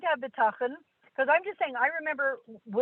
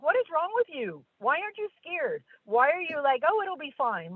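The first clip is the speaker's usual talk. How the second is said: mock indignant questioning, pitched up; higher, mildly angry imitation; imitated indignation; 4 semitones higher than usual. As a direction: challenge them like an exasperated onlooker. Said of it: "most people get angry".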